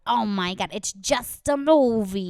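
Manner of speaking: retold dismissive groan at a nitpicker; mock exasperation. Relative scolding kids who criticize the movie, mock exasperated. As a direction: imitate an exasperated protest, stretched out slowly.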